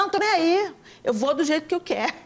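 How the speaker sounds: high, quick mocking shrug-off; dismissive careless guest. Careless wedding guest brushing off dressing up, mocked high and fast. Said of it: "Aí tem gente que fala".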